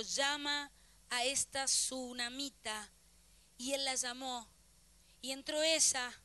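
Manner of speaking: slow, measured reading aloud; scripture reading. Real, not acted. Preacher reading of the boy revived, slow scripture reading. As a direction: read the verse out slowly with deliberate pauses.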